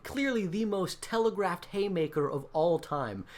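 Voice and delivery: ordinary delivery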